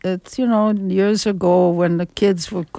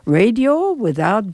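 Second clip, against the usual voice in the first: station announcement. Acted. Host announces the station before nine, formal radio ident. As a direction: announce the station, stretching the final words.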